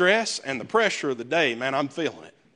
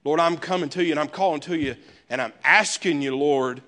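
preaching prayer. Acted. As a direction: plead with God from the pulpit. Preaching and praying the psalm.

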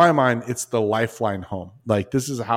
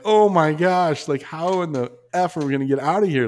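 retold panic; 6 semitones higher than usual. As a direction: let the dread stretch out.

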